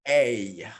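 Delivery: A said long and clear as a model sound; teacher modelling the sound A; vowel demo. Shown as a demonstration. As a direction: hold the vowel A for the class to copy. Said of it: "this sound we called it".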